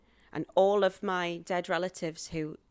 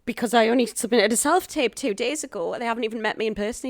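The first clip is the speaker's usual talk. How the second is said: incredulous, growing louder and higher; retold disbelief; 3 semitones higher, 8 dB louder than usual. Actress told she has the part, acted-out building disbelief. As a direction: build from stunned question to loud protest.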